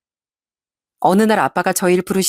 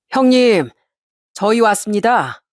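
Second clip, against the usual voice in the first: a mildly raised hearty hello; loud greeting; 3 semitones higher, slower than usual. Acted. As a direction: call out the greeting to the house. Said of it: "아빤 큰 소리로 인사를 했습니다". (크게 인사하는 아빠)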